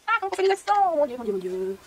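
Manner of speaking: high thin wail sliding down; hammed-up helpless moan; mock despair. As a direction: whine it theatrically, then sink into lament. Mock despair over keyboard accents.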